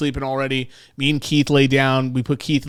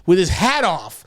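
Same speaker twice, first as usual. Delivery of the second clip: excited retelling; 6 semitones higher than usual. Retold or imitated. Retelling fireman drama.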